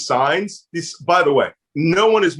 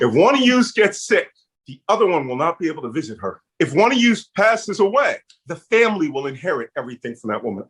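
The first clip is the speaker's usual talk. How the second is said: Philly accent; faster than usual. Real, not acted. Urging an unmarried couple to wed, Philly accent. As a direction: lean into the Philly accent, racing through the consequences. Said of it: "That's my Philly accent coming, kicking in".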